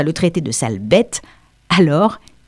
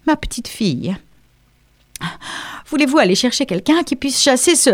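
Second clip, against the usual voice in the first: a hint of a fussy English lady, pitched a little higher; lightly voiced Mrs Dawson; 7 semitones higher than usual. A narrator's reading. Mrs Dawson asks the child on the wall for help, lightly voiced lady. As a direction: call up to the girl as the flustered lady.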